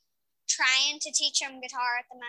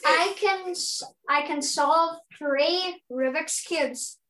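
slower, carefully spelled out; slow and clear; 3 semitones higher, slower than usual. Shown as a demonstration. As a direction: say it again slowly so she understands. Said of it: "So say that again for me".

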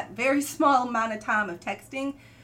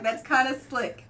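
laughing. Real, not acted. Recalls her reaction, laughing.

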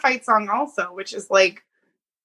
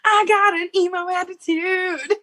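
mock emo voice, higher; teasing sing-song; 8 semitones higher than usual. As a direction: tease her in a sing-song. Mocking friend's confession.

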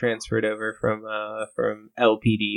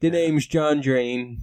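slow, drawn-out tough cop intro; a hint of a hard-boiled detective; 2 semitones higher, much slower than usual. Hosts at the table, introducing the cop in a slow tough voice. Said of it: "Why are you doing that voice?".

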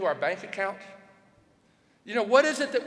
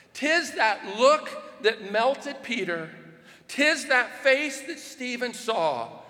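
slow, measured recital of a hymn verse; reverent, slow reading of the lyrics; slower than usual. Acted. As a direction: read each line like a poem, unhurried. Reads hymn lyrics aloud.

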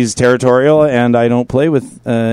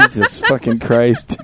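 laughing; 4 semitones lower, slower than usual. Real, not acted. Laughing exclamation.

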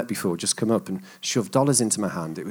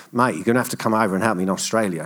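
badly imitated Australian mate; bad Australian accent; faster than usual. Mate urging him to come help in Australia, bad Australian accent. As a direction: attempt a quick, clumsy Australian accent. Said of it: "that was a really bad accent".

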